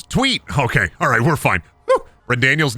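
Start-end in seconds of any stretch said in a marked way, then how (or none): 0.0-0.4 bird tweet. Pretend. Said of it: "Bird goes".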